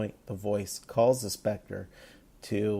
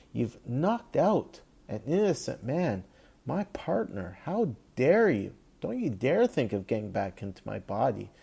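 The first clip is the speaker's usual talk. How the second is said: retold scolding; 3 semitones higher than usual. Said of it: "he reams out the Spectre and says".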